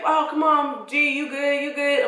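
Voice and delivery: high-pitched, urgent check-in; imitated urgent concern. Little cousin checking on the hurt dog, high urgent voice. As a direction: call it out high, as the cousin did.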